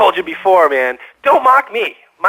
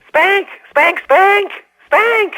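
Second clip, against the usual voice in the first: shouted; 12 semitones higher, much slower than usual. Acted. Caller yelling a single word at the radio host, shrill shout. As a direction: bark the word at the host like a madman.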